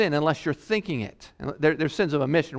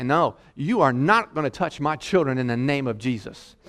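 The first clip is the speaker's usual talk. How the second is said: aggressive rebuke. Pretend. Parent ordering the devil out of the house, aggressive rebuke. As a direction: drive him out like a pit bull. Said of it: "aggressive like a pit bull".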